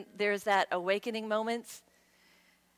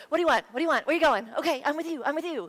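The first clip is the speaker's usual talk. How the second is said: lightly voiced eager puppy, a touch higher; eager ego voice; 4 semitones higher, 4 dB louder, much faster than usual. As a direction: play the ego as a keen little dog. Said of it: "And the ego goes".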